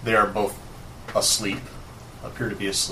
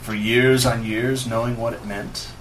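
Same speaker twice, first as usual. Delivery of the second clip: lightly voiced brooding villain; a hint of a menacing wizard; villain monologue. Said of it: "goes into his monologue".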